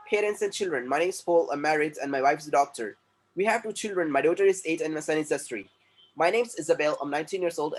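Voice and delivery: reading sample sentences slowly and clearly; slow textbook reading. Shown as a demonstration. Teacher reading textbook lines slowly to class. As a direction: model each sentence slowly for students.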